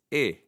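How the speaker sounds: "e" as a short open eh; pure eh sound on "e"; e as in egg. Shown as a demonstration. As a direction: say "e" like the vowel in egg. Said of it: "as in egg".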